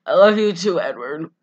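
lightly hammed-up lovelorn reply; mock intense romantic delivery; Bella. Podcaster mimicking Bella answering Edward, mock intense. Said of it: "that's how they talk".

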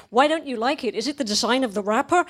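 lightly acted nervous surveyor; nervous lady. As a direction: ask it a touch anxiously, hurrying along. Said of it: "the lady gets very nervous".

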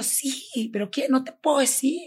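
high-pitched, upset re-enactment; retold tearful distress. Frightened girl refusing to tell her friend, tearfully distressed. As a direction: plead as if crying, unable to tell. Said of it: "me pongo a llorar despavorida".

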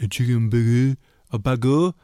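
baguette with exaggerated French vowels; mock French accent. Teasing co-host's deli order, mock French accent. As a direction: ham up baguette like a would-be Parisian. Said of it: "Do you say, like".

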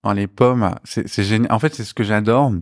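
talking while chewing apple tart; mouth full. Real, not acted. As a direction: speak through a mouthful of tart. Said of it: "parler la bouche pleine".

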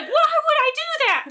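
high, incredulous protest; exasperated. Retold or imitated. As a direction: push back, half laughing. Arguing nobody believes her.

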